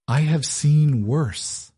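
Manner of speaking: slow, even and unbothered; smooth calm lie. A narrator's reading. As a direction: lie calmly, no trace of pity. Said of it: "she lied smoothly".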